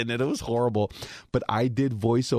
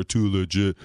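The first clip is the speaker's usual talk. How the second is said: Too legit said lower and a bit louder; lower take; 3 semitones lower, 3 dB louder than usual. Shown as a demonstration. Director asks for a lower take, lower pitch. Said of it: "do it lower".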